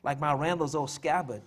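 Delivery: measured poem reading in a widow's persona; dramatic monologue read as verse; poem recital. Acted. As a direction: recite it line by line, with weighted stresses and pauses. Reads his poem aloud.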